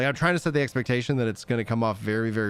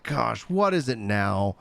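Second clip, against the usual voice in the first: exasperated wife; slower than usual. Retold or imitated. Voices wife annoyed at his crying.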